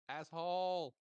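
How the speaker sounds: loud, high yell after someone; angry student's parting shout; shouted insult. Acted. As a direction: hurl the insult at their backs. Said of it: "you just hear him go".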